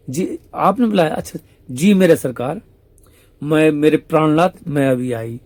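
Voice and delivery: coy devotion. Acted. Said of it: "Radha सखी क्या बोलती है".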